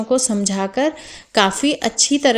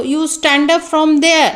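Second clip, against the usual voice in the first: firm classroom command, pitched higher; ordering a pupil; 5 semitones higher, 4 dB louder, much slower than usual. Shown as a demonstration. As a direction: give a pupil a demonstrated order. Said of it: "order करते हैं". (बच्चे को आदेश देते हुए)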